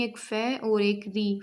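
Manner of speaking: "फे" and "री" set apart as two slow units; syllables named separately. Shown as a demonstration. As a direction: give "फे" and "री" each its own beat. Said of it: "इसमें दो units of sound बनी".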